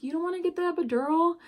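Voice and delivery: mock-incredulous question; surprised doctor. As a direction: ask it like a doctor who can't believe it. Doctor voiced asking.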